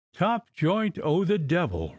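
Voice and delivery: slow, bitter outburst; roar. A narrator's reading. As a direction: bellow it bitterly. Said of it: "roared O'Flaherty".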